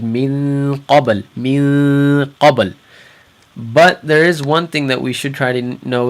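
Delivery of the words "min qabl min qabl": "min qabl" without the tongue touching the top of the mouth; ikhfa demo. Shown as a demonstration. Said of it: "we didn't touch our, the top of our mouths".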